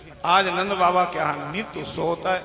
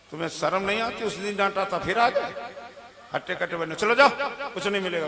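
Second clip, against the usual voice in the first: lightly acted telling-off; mild scolding; faster than usual. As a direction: scold a returning beggar, rising on the dismissal. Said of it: "सास ने डांट दिया". (हल्की डाँट भरे लहजे में)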